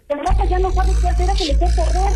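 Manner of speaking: scared mother begging for answers; mother frantic that her sister has left; real panic. Real, not acted. Mother panics over prank call.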